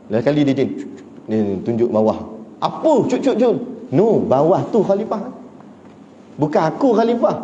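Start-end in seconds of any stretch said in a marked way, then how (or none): 2.6-7.4 higher, quick flustered protest; flustered denial. Retold or imitated. Caliph's companion to the angry woman, flustered higher protest. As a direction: brush off the blame in a fluster.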